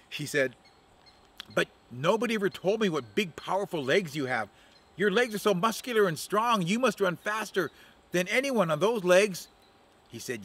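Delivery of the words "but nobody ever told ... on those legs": flattering Octopus Woman. Acted.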